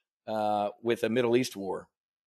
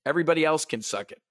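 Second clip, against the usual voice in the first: Gordon Gekko bravado; faster than usual. Acted. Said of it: "The Gordon Gekko in me".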